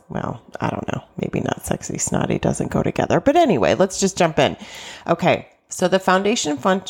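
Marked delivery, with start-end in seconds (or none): 0.1-3.2 whispered aside. Real, not acted. Muttered self-correcting aside.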